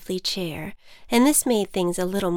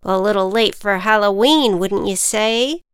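ant voice; 4 dB louder than usual. Acted. Ant teases the butterfly.

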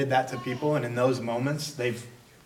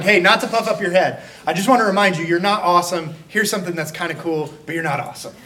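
louder, laughing mock-kind put-down; backhanded encourager; 4 semitones higher, 6 dB louder, faster than usual. Preacher mocking a friend's backhanded praise, laughing. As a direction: hand over a compliment and yank it back. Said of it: "you ruin your encouragement by being like".

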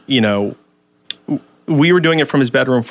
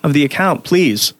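higher-pitched, stammering into a rant; exasperated appeal; 5 semitones higher than usual. Acted. Blogger addresses the absent holder of the wanted Twitter handle, exasperated appeal. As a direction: plead in exasperation with someone who isn't there.

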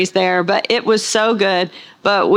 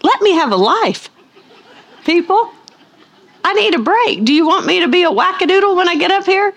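much higher, fast, playful protest; mock exasperation; 9 semitones higher, faster than usual. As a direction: toss it back at the table, high and indignant. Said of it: "I'm like".

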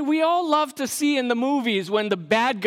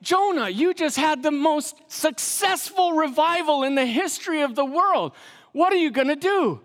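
TV announcer; 6 semitones higher than usual. Retold or imitated. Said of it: "the announcer asks him".

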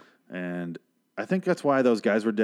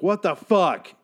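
baffled outburst; 8 semitones higher, 4 dB louder, much slower than usual. Retold or imitated. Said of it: "And I'm like".

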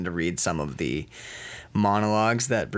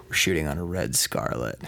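lower, deliberate tease; low mock-seductive repeat; 5 semitones lower than usual. Filmmaker repeating camera name to actor, low tease. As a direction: drop it low to tantalize. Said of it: "Say it slow".

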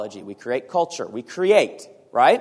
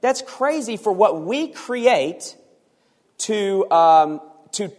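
incredulous; 5 semitones higher, slower than usual. Acted. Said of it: "And he's saying".

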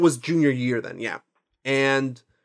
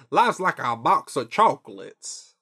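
Forrest Gump impression; slower than usual. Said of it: "I was gonna do the".

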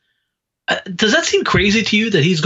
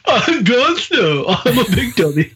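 put-on baby voice; 7 semitones higher than usual. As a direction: whine it like a dopey baby. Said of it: "straight up mocking".

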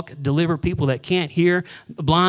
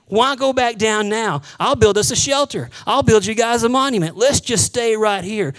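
eager pleading Peter; 5 semitones higher, 4 dB louder than usual. Acted. Peter begging to stay.

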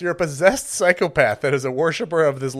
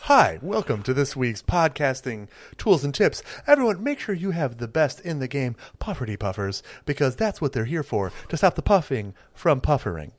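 ad announcer. Pretend. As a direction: pitch it like a lightly hammed-up ad read. Mock podcast ad pitch.

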